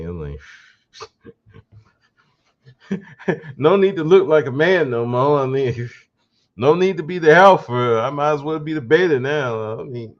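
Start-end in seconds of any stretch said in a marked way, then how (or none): 3.6-10.1 voicing a singer, laughing and mocking; giddy mock resignation, a bit higher.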